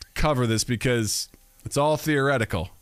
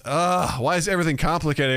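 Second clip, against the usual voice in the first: put-on exasperated kid; 4 semitones higher than usual. Acting exasperated daughter.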